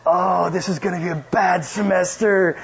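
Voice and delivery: slow, deflated groan; dismayed. Retold or imitated. The speaker realizes the student is the professor, dismayed. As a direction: sink into dread slowly. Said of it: "I was like".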